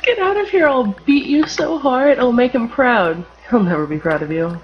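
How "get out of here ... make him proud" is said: put-on high, loud kid voice threatening; angry kid threat. Kid threatening a bully, loud and high. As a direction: yell it like a bratty kid.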